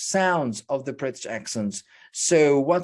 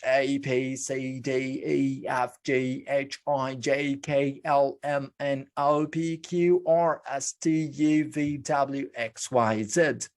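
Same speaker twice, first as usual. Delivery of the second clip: reciting the alphabet; 2 semitones lower, slower than usual. Shown as a demonstration. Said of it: "the letters in English".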